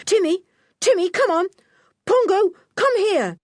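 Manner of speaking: high, loud call to animals; urgent calling. A narrator's reading. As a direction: call them over urgently at high pitch. Boy urgently calls the animals.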